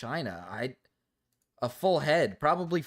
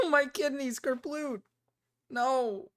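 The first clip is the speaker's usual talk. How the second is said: laughing disbelief; 12 semitones higher, slower than usual. Real, not acted. Laughing disbelief at kidney joke.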